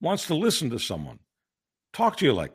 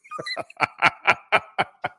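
high burst of laughter. Real, not acted. Laughing at friend's answer.

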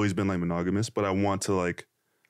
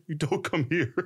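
higher voice, amused imitation; retold receptionist; 5 semitones higher than usual. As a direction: mimic the receptionist while holding back laughter. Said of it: "she's like".

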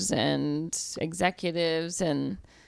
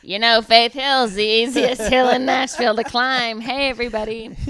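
town crier; 5 semitones higher, 6 dB louder than usual. Pretend. Joke read as crier announcement.

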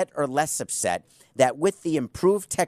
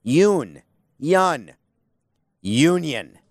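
Sesame Street Muppets; 3 dB louder, much slower than usual. Retold or imitated. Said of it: "Let's picture we're on Sesame Street".

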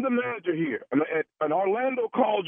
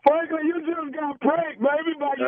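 gleeful reveal; 8 semitones higher than usual. Real, not acted. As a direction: savor the big reveal. Prankster reveals the prank.

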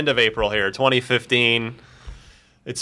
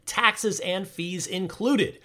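slow emphasis; 5 semitones higher, 7 dB quieter, much slower than usual. Acted. Ad tagline slowed.

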